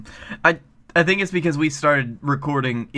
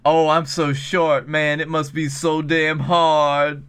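mock whiny; slower than usual. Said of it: "you're talking like".

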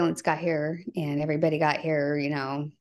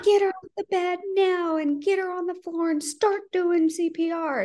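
dispatcher demanding; 11 semitones higher than usual. Retold or imitated. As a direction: bark it as an urgent command. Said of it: "She's screaming in my ear".

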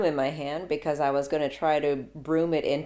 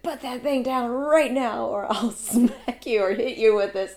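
stern warning; 8 semitones higher, 4 dB louder than usual. Retold or imitated. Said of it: "And I said".

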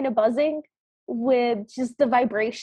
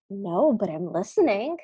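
eager gossip spider; 6 semitones lower than usual. Retold or imitated. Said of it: "the other one responds".

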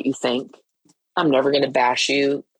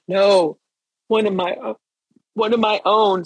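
higher-pitched, mock tearful insistence; retold tearful plea, pitched up; imitating bawling child; 4 semitones higher than usual. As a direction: plead like a crying kid. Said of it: "I mean bawling".

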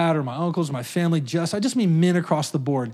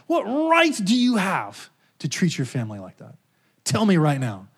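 God's voice. Retold or imitated. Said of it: "He said".

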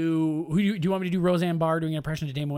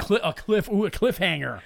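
laughing tease; 4 semitones higher, 4 dB louder than usual. Pretend. Teasing cliffhanger.

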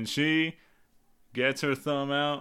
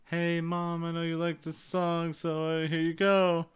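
put-on higher-pitched little-girl voice; lightly voiced kid offering Mom a treat; child to mom; 4 semitones higher than usual. Daughter sharing a favorite song with Mom, higher child voice. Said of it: "And was like".

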